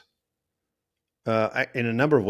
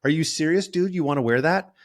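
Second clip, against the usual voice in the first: higher, sharp mocking disbelief; harsh judgment; 6 semitones higher, 3 dB louder than usual. Wife judging husband's outfit in changing room, harsh. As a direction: cut down his outfit choice with scorn. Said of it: "It's like this harsh".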